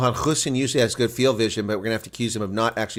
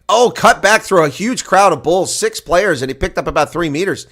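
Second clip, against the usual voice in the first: higher, louder live commentary; excited rugby commentator, voice raised; excited play-by-play; 7 semitones higher, 8 dB louder than usual. Real, not acted. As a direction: call a surprise break through traffic.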